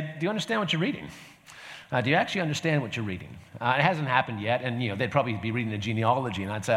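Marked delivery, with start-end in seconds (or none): 0.0-3.4 fast, keen imitated question; eager quick question. Pastor imagining a train stranger, asking fast and keen. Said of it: "the opportunity to say".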